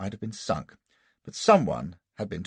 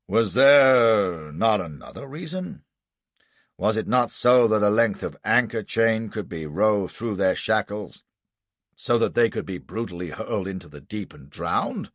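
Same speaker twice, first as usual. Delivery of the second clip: accusing prosecutor; 3 semitones higher, 5 dB louder than usual. Acted. Lawyer accuses witness.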